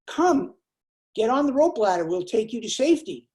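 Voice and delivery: a rescuer yelling over the rotor; helicopter rescuer calling. Acted. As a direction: shout down from the helicopter. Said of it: "A voice says".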